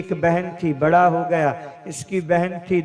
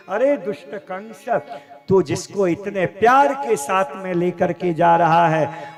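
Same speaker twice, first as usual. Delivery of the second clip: rising oracle voice, stretched final words; thundering heavenly proclamation; 3 semitones higher, 4 dB louder than usual. Acted. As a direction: proclaim doom like a voice from the sky. Heavenly voice proclaims doom to Kans.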